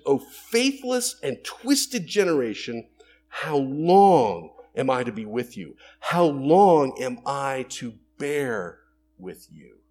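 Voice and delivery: slow, loud, weary rebuke; exasperated lament, slow and loud; Jesus rebuking. Acted. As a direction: drag out each word like a tired rebuke. Preacher voicing Jesus rebuking crowd.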